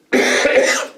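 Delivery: unvoiced hammed-up cough; fake cough. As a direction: cough like the angry man. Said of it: "he coughed".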